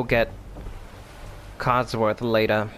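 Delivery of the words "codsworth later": put-on slow, drawn-out mystery accent on Codsworth; vague put-on accent. Gamer trying a random accent while planning to fetch Codsworth. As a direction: try on some unplaceable accent, slowly. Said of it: "Don't know what accent I was going for there".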